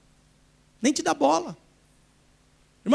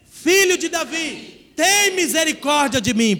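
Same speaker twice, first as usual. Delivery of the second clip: crying out again; 3 semitones higher, slower than usual. Shown as a demonstration. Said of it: "Mais uma vez".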